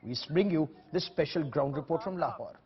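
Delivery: measured news voiceover, words weighed; news report read. Acted. Anchor introducing a ground report in measured news voice.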